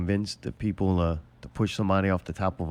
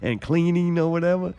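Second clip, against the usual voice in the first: advice voice; 4 semitones higher, 4 dB louder than usual. Acted. Imagined advice to a robot.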